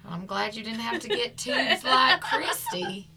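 a mild, slow, half-hearted Southern twang. Retold or imitated. Host imitating her co-host's mom with a faint Southern twang. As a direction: lightly put on a Southern twang, drawn out. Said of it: "that's not a good twang".

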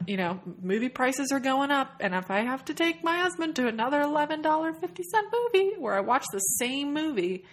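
high, mounting mock indignation as a put-upon ticket buyer; exasperated moviegoer. Moviegoer complaining about paying to see the same film, exasperated.

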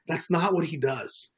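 normal talking voice

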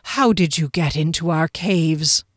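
stern, ghostly interrogator; cold accusing question; menacing guard. A narrator's reading. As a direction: demand it as an otherworldly sentinel.

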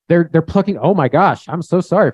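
high, loud feigned horror; hammed-up flustered apology; mock shock. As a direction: act aghast and apologetic. Mock shocked Jesus apologising to Pharisees.

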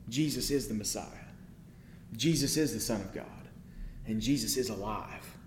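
soft, low declaration of faith; hushed conviction. Real, not acted. Preacher quietly declares to the church who Jesus is. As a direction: lean in and say it quietly, as a creed.

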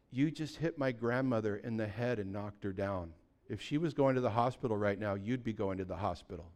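low, soft, menacing warning; quiet fury. Retold or imitated. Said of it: "I was so upset".

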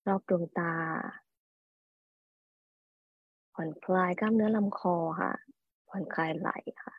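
calm hypnosis induction voice; soft spa whisper. Acted. Leads a relaxation induction.

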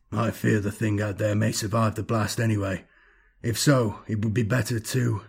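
lightly voiced tired old master; a touch of grim resignation, kept even; weary master. Lachius fearing the thing will survive, lightly voiced weary master.

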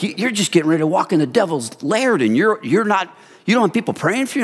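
playing the shocked pastor, rising in disbelief; incredulous pastor. Pastor to nervous preacher about the devil's lair, incredulous, rising. Pastor scolds him, no prayer support.

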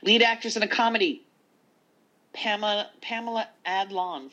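big awards-show announcer read. Pretend. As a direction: announce the category with flair. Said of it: "I'm trying to sound like the announcer chick".

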